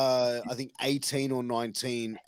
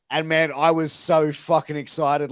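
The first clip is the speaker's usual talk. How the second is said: normal talking voice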